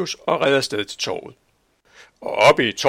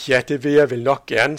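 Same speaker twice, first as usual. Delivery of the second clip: happy; 3 semitones higher, 7 dB louder than usual. Acted. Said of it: "sagde Camomilla lykkelig".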